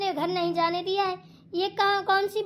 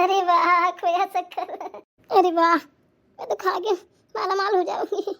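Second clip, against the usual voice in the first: slow, savouring glee with loud exclamations; gleeful delight; 5 dB louder than usual. Acted. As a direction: relish the treat, drawing the words out. Greedy delight over brought sweets. (मिठाई पर लार टपकाती खुशी)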